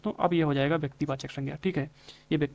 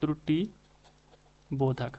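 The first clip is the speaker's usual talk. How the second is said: word spelled out slowly; slower than usual. Shown as a demonstration. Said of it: "इसका एक दूसरा नाम होता है त्रुटि बोधक".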